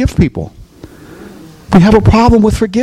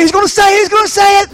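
eager onlookers. Retold or imitated. Pastor voices the watching congregation.

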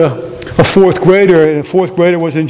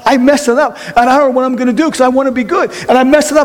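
high-pitched pleading confession; acted fretful plea, pitched high; distressed confession; 5 semitones higher than usual. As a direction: plead with God in mock distress, voice raised.

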